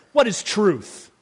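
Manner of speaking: weary skeptic asking what truth is; lightly voiced Pilate, repeated twice; Pilate's question. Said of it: "You can almost hear Pilate's question".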